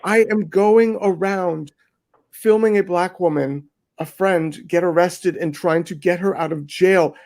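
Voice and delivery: replaying how fed up she was, voice climbing; exasperated disbelief. Retold outburst at online critics.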